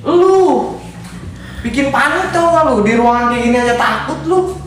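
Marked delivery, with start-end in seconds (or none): 0.1-0.8 high laughing exclamation. Real, not acted. Friend laughs at the other's panic, high laughing jab.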